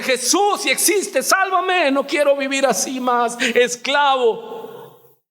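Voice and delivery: re-enacted desperate prayer, pitched high; pleading shout, stretched out at the end; crying out. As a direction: cry out to be saved. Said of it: "Y le grité y le dije".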